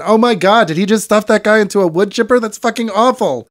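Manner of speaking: appalled outburst. Acted. Acting out a viewer's shock at a wood chipper scene, appalled. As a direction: react aghast, pitch jumping up.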